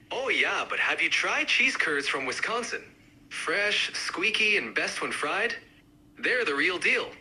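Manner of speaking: lightly done Wisconsin accent. Shown as a demonstration. Cheese curd fan countering others, mild Wisconsin accent. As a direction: give it a hint of Wisconsin. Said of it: "each accent, uh, represented by a speaker".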